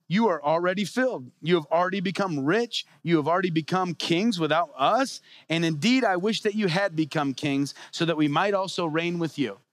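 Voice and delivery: sarcastic. Acted. Paul to the Corinthians who act like kings, mildly sarcastic. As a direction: read the praise with a touch of irony. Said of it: "he's totally being sarcastic here".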